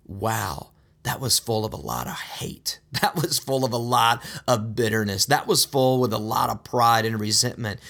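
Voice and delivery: hushed, mocking backbiting voice; mock gossip. Imagined gossip about others.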